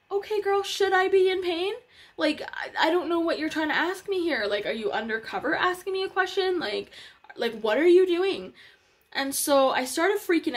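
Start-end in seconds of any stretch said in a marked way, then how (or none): 0.1-8.5 retelling her own baffled comeback to the ultrasound tech; exasperated retort. Retold or imitated. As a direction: throw the question back at her in disbelief. Retold exasperated reply to tech.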